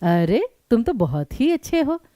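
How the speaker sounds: "अरे" swung upward, then the tune moves down and up; rising and falling intonation. Shown as a demonstration. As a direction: let the voice travel up and down from "अरे" onward. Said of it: "स्वर जो है वो ऊपर नीचे कैसे जा रहे हैं". ("अरे" से स्वर ऊपर-नीचे, अनुतान के साथ)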